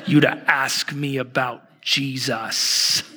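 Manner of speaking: slow, deliberate mock indignation; hammed-up offence, drawn out; mock offended. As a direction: play an affronted Portlander, spacing out each word. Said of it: "waiting for her to go like".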